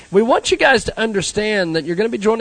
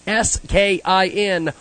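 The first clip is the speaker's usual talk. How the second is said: slow, letter by letter; spelling it out; 3 dB louder, slower than usual. Shown as a demonstration. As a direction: spell each letter clearly. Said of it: "we're gonna spell it for you".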